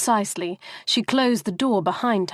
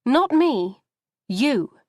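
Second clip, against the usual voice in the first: sharp sister's voice; 4 semitones higher than usual. Retold or imitated. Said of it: "Maxine's sharp voice in her head".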